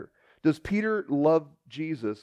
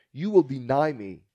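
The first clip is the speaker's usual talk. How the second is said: ordinary talk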